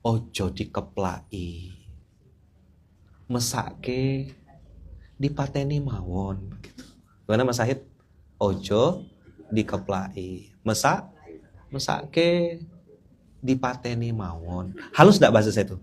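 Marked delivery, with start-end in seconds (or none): 0.0-6.6 soft, slow Javanese phrasing; lightly voiced gentle Javanese speaker; a hint of refined Javanese; Javanese speech. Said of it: "saya akan ngomong seperti orang Jawa". 8.4-14.7 soft Javanese lilt, rising on mesake; mild gentle Javanese delivery; a touch of refined Javanese; Javanese speech. Retold or imitated. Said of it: "seperti orang Jawa".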